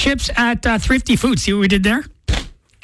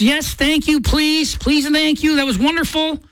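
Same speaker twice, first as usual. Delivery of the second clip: forced politeness; 4 semitones higher than usual. Retold or imitated. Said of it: "You don't say anything, just".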